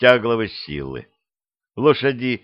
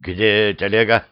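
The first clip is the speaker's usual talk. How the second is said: ordinary delivery, nothing marked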